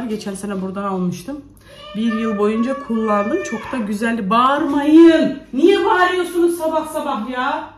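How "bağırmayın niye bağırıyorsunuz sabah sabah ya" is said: raised, higher voice with a laugh; amused but loud telling-off; loud scolding. Real, not acted. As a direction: scold them half laughing. Mother scolds shouting kids.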